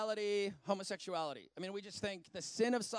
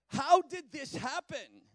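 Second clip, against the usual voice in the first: louder; mock dismay; 5 semitones higher, 7 dB louder, slower than usual. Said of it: "I wake up every morning and I go".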